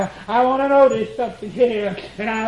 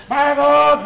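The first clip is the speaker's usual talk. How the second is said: higher, louder anguished cry; 4 semitones higher, 5 dB louder than usual. Acted. Preacher voicing Jesus crying out, loud and high. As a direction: call it out to heaven. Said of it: "cried with a loud voice".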